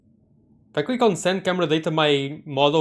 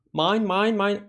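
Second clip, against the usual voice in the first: seagull voice; 5 semitones higher than usual. Retold or imitated. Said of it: "In the seagull voice".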